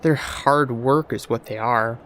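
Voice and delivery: slow, scornful snort at the notion of miracles; scoffing artificer. Acted. The artificer scoffs at the visitor, slow and dismissive. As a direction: scoff it away slowly. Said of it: "The artificer snorted".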